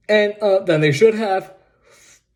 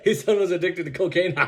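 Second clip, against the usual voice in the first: softer, laughing disbelief; 3 dB quieter than usual. Real, not acted. Vlogger laughing at the cocaine smear. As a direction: chuckle the words out.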